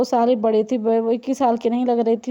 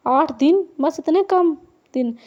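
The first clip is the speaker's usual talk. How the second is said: shocked at how soon; surprised; 4 semitones higher than usual. Acted. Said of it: "रबाब हैरान हुई।".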